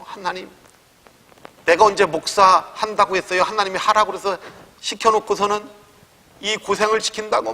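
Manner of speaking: loud complaint. Retold or imitated. Pastor on the rooftop shouting at God, angry complaint. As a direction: shout your grievance up into the rain. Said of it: "큰 소리를 막".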